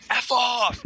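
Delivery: high, loud imitated yell; yelled back. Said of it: "he just yelled back".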